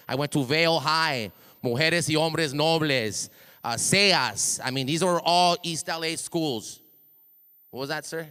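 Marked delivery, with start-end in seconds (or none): 0.1-6.8 booming hype-man voice, louder; projecting hard into the mic; too loud. Real, not acted. Hype man firing up students, booming loud. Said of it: "Little loud".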